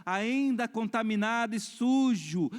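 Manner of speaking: slow, high, emphatic preacher; forceful preaching. Real, not acted. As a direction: preach it with long, stretched words. (pregação enfática)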